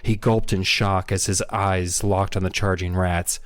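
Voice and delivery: steady, dramatic audiobook reading; story narration. Acted. Podcaster reading a scary rat chase aloud, story narration. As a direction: read it out as a suspense story.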